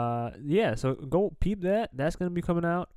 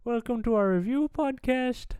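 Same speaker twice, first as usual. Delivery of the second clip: put-on Irish accent; 4 semitones higher than usual. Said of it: "where we talk in accents".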